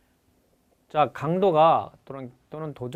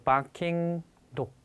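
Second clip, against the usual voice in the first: slow model phrase; 2 semitones higher, much slower than usual. Shown as a demonstration. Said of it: "a barking dog이겠죠".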